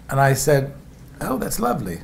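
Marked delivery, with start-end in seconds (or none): 1.2-2.0 a light put-on British accent, lifted at the start; a hint of a polite British accent, not overdone; fake British accent. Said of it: "fake an English accent".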